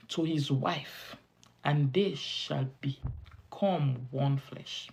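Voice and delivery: slow, measured scripture quotation; scripture recitation. Acted. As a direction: recite it slowly, phrase by phrase, with long pauses.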